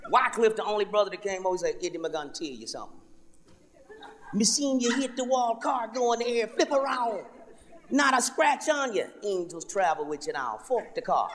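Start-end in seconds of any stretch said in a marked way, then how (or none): 1.8-11.3 put-on Jamaican accent. Wycliffe voiced, Jamaican-ish.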